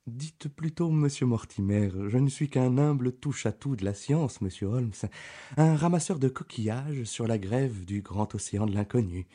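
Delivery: put-on the young country doctor answering Holmes; eager Dr Mortimer. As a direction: pitch him up, keen and earnest. Reader voices Dr Mortimer.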